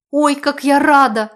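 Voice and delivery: high, loud happy squeal; a joyful shriek of relief. A narrator's reading. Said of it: "взвизгнула я".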